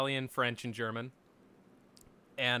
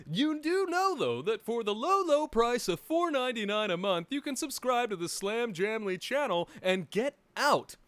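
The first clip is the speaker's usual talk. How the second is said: ad read; 6 semitones higher, 3 dB louder than usual. Acted. Parodies a channel subscription ad.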